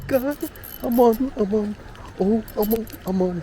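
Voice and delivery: high-pitched excited yelps; shrieking jackpot winner. Real, not acted. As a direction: squeal like you hit the jackpot. Fish strikes his frog.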